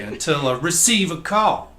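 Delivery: "receive" with the emphasis on its first syllable; wrong-syllable stress. Retold or imitated. Quoting a lyric to co-hosts, misplaced stress on "receive". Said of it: "put the emphasis on the wrong syllable".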